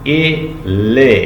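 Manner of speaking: ए and ले said slowly with a long e; slow demo. Shown as a demonstration. Teacher compares two sounds for students, slow. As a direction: draw out ए, then ले. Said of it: "ले और ए देखें कितना".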